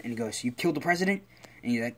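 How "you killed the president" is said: surprised question. Acted. Villain questions returning ally.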